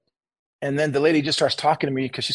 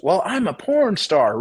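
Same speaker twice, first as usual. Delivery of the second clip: higher and slow, a mild mock blurt; really loud; 6 semitones higher, much slower than usual. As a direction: imitate her announcing it slowly and high, only lightly louder. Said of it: "really loud".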